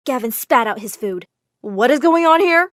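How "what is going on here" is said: loud, high, startled question; shocked demand. Acted. Gavin confronting the stranger at dinner, loudly shocked. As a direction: demand an explanation in alarm.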